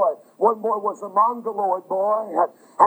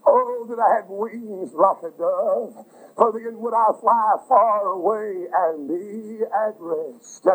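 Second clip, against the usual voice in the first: slow, drawn-out yearning plea; longing lament; slower than usual. Acted. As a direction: ache for escape, stretching each word. Preacher voicing David's longing prayer.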